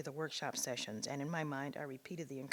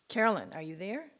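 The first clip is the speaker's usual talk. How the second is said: calling out; 4 semitones higher, 8 dB louder than usual. Retold or imitated. Voice on the phone calling.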